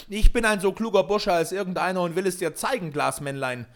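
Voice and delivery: loud, high, defiant outburst; angry boast. A narrator's reading. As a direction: shout back defiantly at the little man. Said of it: "rief jeder".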